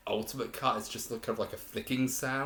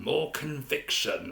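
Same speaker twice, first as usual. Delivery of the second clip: slow, a bit higher and louder mock-grand delivery; grandiose; 4 semitones higher, 3 dB louder, slower than usual. Reviewer quoting Tiberius in a mildly grandiose tone. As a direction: lean into it like a theatrical emperor. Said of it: "it feels very grandiose and very kind of almost, like, dark".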